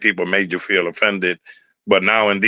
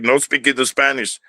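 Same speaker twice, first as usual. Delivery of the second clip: mock scolding; 4 semitones higher than usual. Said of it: "it was like".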